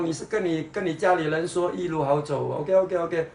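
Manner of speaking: normal talking voice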